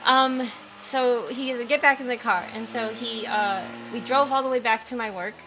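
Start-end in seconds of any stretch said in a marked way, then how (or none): 1.7-2.4 angry command. Retold or imitated. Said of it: "I've never seen Safdie angry like this".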